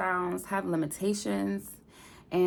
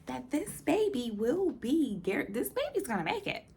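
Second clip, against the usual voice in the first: quoting the doctor; 7 semitones higher, 4 dB louder than usual. Retold or imitated. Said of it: "they was just like".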